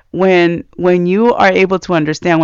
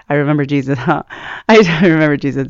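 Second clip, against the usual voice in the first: chuckling through the words; amused laughing; much faster than usual. Real, not acted. Speaker catches own funny-sounding phrase, amused laughing. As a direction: laugh lightly at your own slip.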